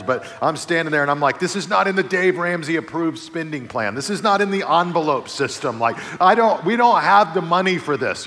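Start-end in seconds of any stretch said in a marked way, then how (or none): 1.4-8.3 mock angry dad, louder; rising exasperation about the cost; retold frustration. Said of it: "and I'm getting angry".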